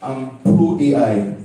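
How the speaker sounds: emphatic declaration. Real, not acted. Declaring stance to audience.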